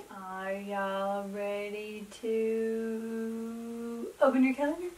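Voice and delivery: cooing to the dog; lightly sing-song dog talk; dog mom voice. Acted. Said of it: "my dog mom voice".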